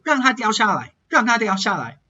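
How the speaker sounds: 让它 said with 它 sounding like na. Shown as a demonstration. Teacher showing assimilation, 它 in 让它 sounding like na. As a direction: blend 它 into the end of 让, almost rang-na. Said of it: "hear my ta kind of sounding like a na".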